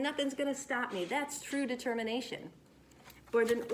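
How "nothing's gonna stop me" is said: higher, eager declaration; fired up. Acted. Louis, fired up, vows to finish his story. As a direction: say it all pumped up and ready. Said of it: "he's all fired up saying".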